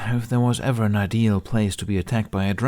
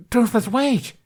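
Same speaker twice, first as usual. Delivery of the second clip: calling after; 6 dB louder, slower than usual. Acted. Toothless runs off into woods.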